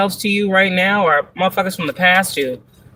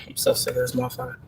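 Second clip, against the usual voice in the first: very high, whispered, fast squeak; exasperated squeak; 11 dB quieter, faster than usual. Retold or imitated. Reader mocking fed-up Scorpio, high fast whisper.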